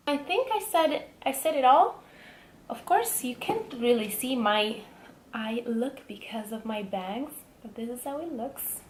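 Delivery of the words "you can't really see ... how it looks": whispering. Real, not acted. Unvoiced aside.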